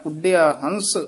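ਉੱਡਿਆ with a firm, doubled ḍḍ; tightened consonant. Shown as a demonstration. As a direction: press lightly on the middle consonant of ਉੱਡਿਆ. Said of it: "ਕੱਸ ਕੇ ਥੋੜ੍ਹਾ ਜਿਹਾ ਉਚਾਰਨ ਕਰਨਾ".

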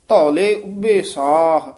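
ਧੌਲੇ said soft and slow; soft dhaule. Shown as a demonstration. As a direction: soften the ਧ in ਧੌਲੇ. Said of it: "ਇਹ ਪੋਲਾ ਹੀ ਬੋਲਣਾ".

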